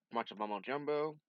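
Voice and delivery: whisper. Real, not acted. Mocking aside about the comic.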